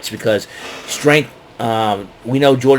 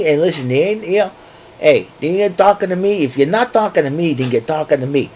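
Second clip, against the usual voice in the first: De Niro riff; 4 semitones higher than usual. Pretend. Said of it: "I get a kick out of saying that".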